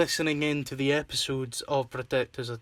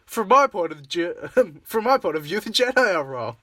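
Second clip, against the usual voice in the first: Anakin impression; 4 semitones higher, 5 dB louder than usual. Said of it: "So I was like".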